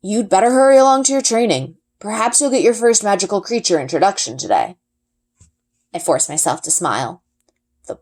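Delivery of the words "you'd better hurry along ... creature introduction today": a lightly voiced, steady father explaining; a hint of a calm, knowing father; Papa's voice. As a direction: answer patiently like a wise dad. Papa sending daughter to training.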